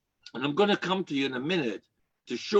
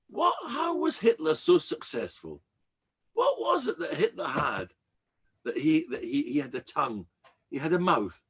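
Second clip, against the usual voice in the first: incredulous question; 4 semitones higher than usual. Retold or imitated. Quoting people who ask him.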